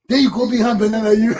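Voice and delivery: fast, loud scolding outburst; exasperated shout. Real, not acted. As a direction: yell it out in disbelief. Scolding Cummings, calling out.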